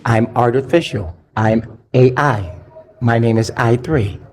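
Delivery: light synthetic robot voice; a hint of an old speech synthesizer; computer voice. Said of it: "That's my computer voice".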